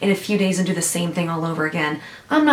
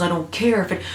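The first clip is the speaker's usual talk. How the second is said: sarcastic mock quote. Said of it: "He bravely stands up and says".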